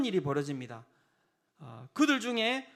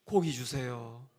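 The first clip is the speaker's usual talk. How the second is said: mock pleading; 6 semitones lower, slower than usual. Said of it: "고기 달라고 이야기하면".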